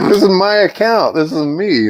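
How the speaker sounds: incredulous, high, pleading that it's his own account; exasperated protest. Real, not acted. Telling the co-host about the bank, high exasperation. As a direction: pitch jumps way up in disbelief.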